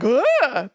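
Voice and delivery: playful mock "ugh"; jokey recoil noise. Crew member joking at the doll, mock recoil noise. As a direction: imitate a jokey little shudder sound. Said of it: "being, like, a little jokey".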